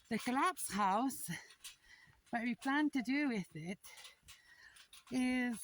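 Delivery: catching her breath while talking; breathless after hauling stones. Real, not acted. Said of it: "I'm catching my breath".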